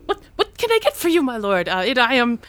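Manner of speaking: high, fast, fawning innkeeper voice; bow and scrape to the prince; tavern owner. Acted. Innkeeper bowing to the prince, high eager voice. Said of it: "a middle-aged, uh, woman".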